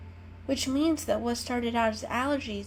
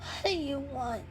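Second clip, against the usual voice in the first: rudely; 7 semitones higher, 4 dB quieter than usual. A narrator's reading. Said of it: "she asked rudely".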